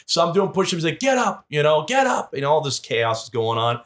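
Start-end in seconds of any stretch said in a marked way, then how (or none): 1.0-1.5 high, short mock command; mock screamed order. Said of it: "just screaming". 1.9-2.3 high, short mock command; mock screamed order. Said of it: "just screaming".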